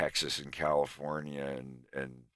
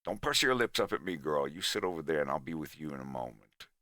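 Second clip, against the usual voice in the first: Southern gentleman drawl; faster than usual. Acted. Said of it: "I've tried to do the character".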